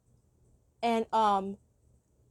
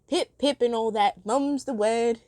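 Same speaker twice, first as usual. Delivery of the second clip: fancy Brit. Retold or imitated. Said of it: "pretending I'm, like, a fancy Brit".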